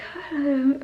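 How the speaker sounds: soft breathy exhale mimicking a mumbly narrator; imitated breathy sigh. Reviewer showing how the audiobook narrator sounds, imitated breathy sigh. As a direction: breathe out instead of enunciating. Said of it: "very breathy".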